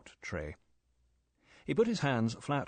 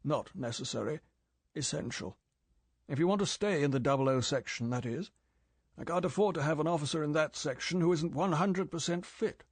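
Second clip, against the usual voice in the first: cool, clipped, frosty chief; ice-cold certainty; 5 semitones higher than usual. Acted. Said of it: "M smiled frostily".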